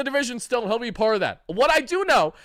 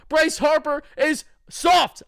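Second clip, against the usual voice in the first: slow shout; 5 semitones higher, 4 dB louder, much slower than usual. Real, not acted. Ranting host calls out rival.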